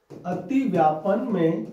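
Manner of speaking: अतिव्यापन में drawn out slowly, word by word; slow dictation. Shown as a demonstration. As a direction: spell out अतिव्यापन में slowly so students can write it. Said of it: "लिखो". (अतिव्यापन में धीरे धीरे लिखवाते हुए)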